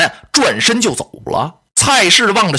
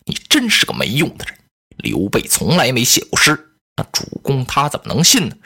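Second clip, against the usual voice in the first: lower, a hint of a contemptuous lady; scolding elder sister; 6 semitones lower than usual. Lady Cai scolds Cai Mao for letting Liu Bei escape, lower and scornful. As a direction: scold him like a useless brother.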